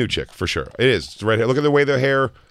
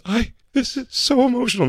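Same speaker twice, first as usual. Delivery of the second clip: high, breathy-sounding mock gush; overly emotional high voice; gushing high girlfriend voice. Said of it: "she goes".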